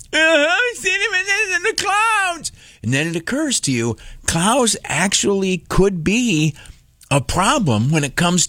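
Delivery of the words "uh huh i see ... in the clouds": put-on high, sing-song little kid; child's voice. Son answering dad about the clouds in a high kid voice. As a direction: answer like a small sarcastic child. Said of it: "son's reply".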